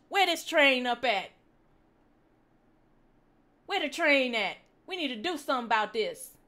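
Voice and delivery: loud, worked-up Ebonics storytelling; mock-outraged Ebonics tirade; Ebonics accent. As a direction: rant in a put-on Ebonics accent, pitch jumping up. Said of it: "that's a good accent".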